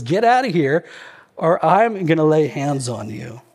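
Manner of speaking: mildly enraged threat, acted out; a restrained mock-furious warning. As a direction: quote an angry man, only a touch of fury. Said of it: "He's enraged about this".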